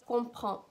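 "Comprends" ending on the nasal vowel, no final consonants; silent final consonants. Shown as a demonstration. Teacher showing learners the silent ending, "Comprends" without final consonants. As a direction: leave the last consonants of "Comprends" unspoken. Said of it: "you don't pronounce the consonants at the end".

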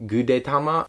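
"Gudetama" with a questioning rise; unsure pronunciation. Real, not acted. Vlogger unsure of a character's name, says "Gudetama" questioningly. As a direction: try out "Gudetama" as a tentative question. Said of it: "don't actually know how to pronounce".

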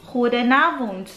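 "Goedenavond" slow and clear with a throaty G; Dutch goedenavond. Shown as a demonstration. Teaching viewers the evening greeting, slow Dutch. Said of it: "that is".

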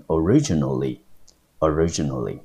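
originally with the stress on RI; teacher's demo of originally, RI stressed; stress on second syllable. Shown as a demonstration. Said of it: "它的重音节不一样了".

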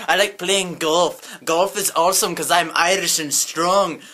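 Arnold-like voice slipping toward Irish; botched Irish accent. Acted. Strongman bragging about golf, muddled Irish accent. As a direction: attempt an Irish accent, badly. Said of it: "that's like an Irish accent".

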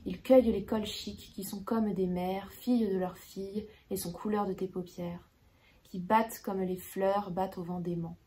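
measured, even poetry reading with pauses between lines; poem recitation. Acted. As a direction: recite the verse with care, letting each line settle.

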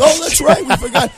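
high-pitched, acting out detectives remembering; mock sudden realisation. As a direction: put on a sudden "oops" for the detectives. Detectives voiced realising their mistake.

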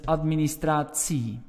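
"administratie" ending as -sie, Flemish style; Flemish suffix. Shown as a demonstration. Teacher shows the Flemish administratie ending. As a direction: soften the tie into sie. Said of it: "more pronounced as S I E".

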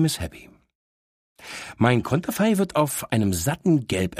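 a know-it-all little dog teasing her owner; cheeky talking dog. Acted. Dog Miss Happy speaks. (leicht gesprochene, vorlaute Hündin)

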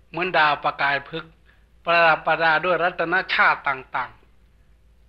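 measured, slightly subdued recital; formal scripture dialogue. Acted. Monk quotes a venerable questioning a deity, lightly solemn recital.

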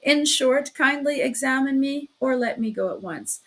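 fed-up shout at the sly investigator. Acted. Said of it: "he shouted".

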